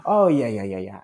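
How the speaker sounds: mock-agreeable, trailing down; falsely nice. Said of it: "doing it in such a nice way".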